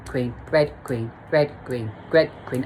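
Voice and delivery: chanting "red" and "green" each with a small rise; alternating rhythm. Shown as a demonstration. Describing the flashing sensation, chanting "red", "green". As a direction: tick through them like a flashing light. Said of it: "So it was like red".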